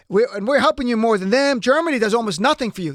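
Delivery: lightly mimicked politician, emphatic; a hint of the president making his pitch; Trump. Commentator quoting the president to Zelensky, light Trump impression. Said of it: "Maybe I'll try a Trump impression here and there".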